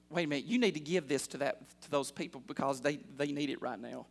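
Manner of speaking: low, soft, quick nudge; quiet inner prompting. Acted. The Lord telling a churchgoer to give, quiet inner prompting. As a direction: voice a hushed prompting from within. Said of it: "felt the Lord telling you".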